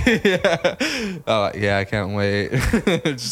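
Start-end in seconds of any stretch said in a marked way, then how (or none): 1.3-2.5 deadpan claim of eagerness; excited words kept level; monotone excitement. Retold or imitated. Monotone talker telling girlfriend he's excited, deadpan. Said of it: "it doesn't really sound".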